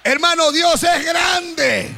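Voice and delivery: muy lento y a voz en grito; proclamación gritada. Real, not acted. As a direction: estira cada palabra proclamando a Dios. Predicador proclama a la congregación. (el pastor proclama a los hermanos, lento y gritando)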